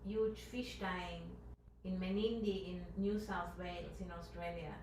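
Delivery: speaking up slightly to be heard. Real, not acted. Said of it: "can you speak a little louder".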